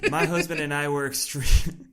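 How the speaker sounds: breaking up mid-quote; giggling Southern reading; words cracking into a laugh; laughing through it. Real, not acted. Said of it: "from the top".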